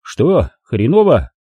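sympathetic. Acted. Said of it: "сочувственно спросил".

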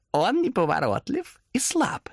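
high, slow hoarse demon whisper. A narrator's reading. Demon whispers to Thomas about the weak peddler. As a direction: rasp it close in his ear. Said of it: "сипло нашёптывал демон".

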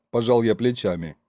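ordinary delivery, nothing marked

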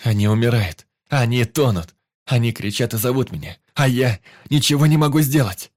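loud, rising despairing cry; anguished shouting. Acted. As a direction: shout it out in helpless panic. Helpless hero cries out.

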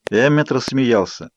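usual speaking voice

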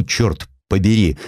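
usual speaking voice

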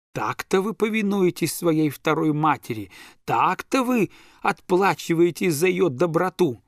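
a theatrical lament from the tutor; tragic voice. Acted. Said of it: "трагическим голосом".

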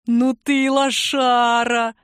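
a long teasing drawl; drawn out. Acted. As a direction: drag every word out mockingly. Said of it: "протянул Константин".

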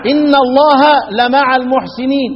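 لمع with the stress pushed onto its lam; recite, detaching the lam of لمع from مع; careful stress demo in لمع. Shown as a demonstration. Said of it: "دفع النبر الى اللام".

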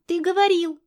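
put-on a girl blaming her dad; protesting little girl. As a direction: daughter accusing her father.

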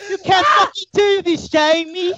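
high, loud yell through laughter; laughing yell. Retold or imitated. Host retells yelling at Jamie, laughing shout. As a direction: holler it half crying with laughter. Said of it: "I told him".

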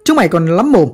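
a mild mock bellow to silence the crowd; shouted order. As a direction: bark it out, half-hearted. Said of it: "hét lớn".

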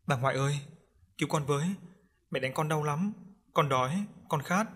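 a hint of a whimpering little ghost; pleading ghost child. Ghost child begs grandmother for help, lightly pleading.

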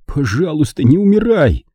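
desperate plea that swells at the end; whispered plea. A narrator's reading. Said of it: "прошептал".

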